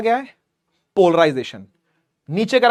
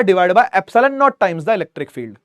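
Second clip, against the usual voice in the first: slow dictation; much slower than usual. Shown as a demonstration. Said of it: "dictating formula".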